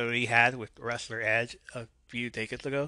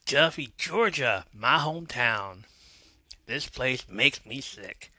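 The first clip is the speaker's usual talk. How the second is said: put-on slow, mildly raised Georgia accent. Wrestler addressing the booing hometown crowd, slow Georgia accent. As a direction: put on a Georgia drawl for a heel's speech. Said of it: "I have to do the accent".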